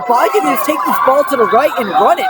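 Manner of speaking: shouting advice at the field; yelling from the sidelines. Real, not acted. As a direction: call out to the quarterback.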